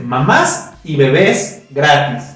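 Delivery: "Mamás y bebés gratis" read slowly, stressed on MÁS and BÉS; final-syllable stress. Shown as a demonstration. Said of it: "Sin acento, cosa muy distinta". ("Mamás y bebés" lento, acento en la última sílaba)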